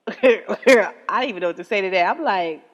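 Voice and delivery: loud laughter breaking through the words; laughing. Real, not acted. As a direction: laugh it out, still baffled. Laughing at Facebook comment.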